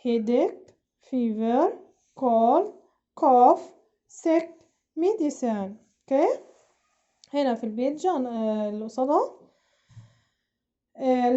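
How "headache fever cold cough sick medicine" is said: word-by-word model with rising list tune; teacher's vocabulary drill, a pause after each word; repeat-after-me drill. Shown as a demonstration. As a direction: call out each word for pupils to echo. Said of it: "repeat after me another time".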